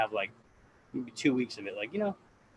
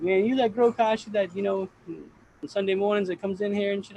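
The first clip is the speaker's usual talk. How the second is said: high, loud mimicked voice of Subcool; imitating Subcool; 9 semitones higher, 4 dB louder than usual. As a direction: Subcool quoted in a much higher put-on voice. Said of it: "And he's like".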